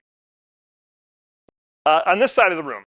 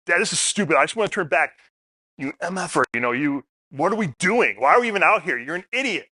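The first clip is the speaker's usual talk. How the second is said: higher, fed-up kid ranting, lightly played; mock cussing out; 3 semitones higher than usual. Father imitating his son cussing him out, mild mock rant. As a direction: vent like an annoyed teenager, not full force. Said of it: "cussing me out".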